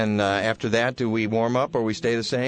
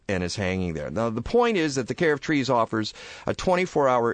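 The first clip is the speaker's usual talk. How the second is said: radio sponsor read, upbeat; 3 semitones higher than usual. Acted. Host reads sponsor ad.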